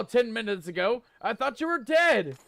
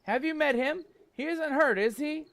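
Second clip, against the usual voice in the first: higher mother's voice, moved and fussing; doting mother; 5 semitones higher than usual. Acted. Mother Talon reuniting with her grown son, higher and doting. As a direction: gush over him like a proud mum.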